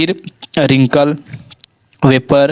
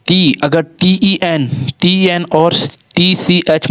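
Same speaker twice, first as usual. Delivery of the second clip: slow spelling; 4 semitones higher, slower than usual. Shown as a demonstration. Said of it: "spelling rule".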